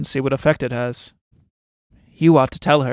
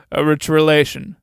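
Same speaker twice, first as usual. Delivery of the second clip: laughing mockery; 4 dB louder than usual. Laughs at the rich visitor.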